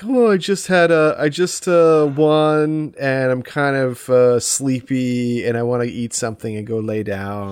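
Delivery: mild Pooh-like drowsy complaint, trailing down; dozy, contented impression, lightly hammed; Winnie the Pooh energy. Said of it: "he has pretty big poo energy".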